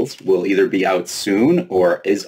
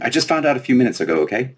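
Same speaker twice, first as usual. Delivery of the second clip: mildly angry; 7 semitones higher than usual. Acted. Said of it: "her anger quickly returning".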